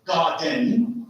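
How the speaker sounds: GARDEN slowed, weight on first syllable GAR; trochee example. Shown as a demonstration. Teacher giving a trochee example, stress on GAR. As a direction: stretch GARDEN, leaning on GAR. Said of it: "Garden is a stressed and unstressed".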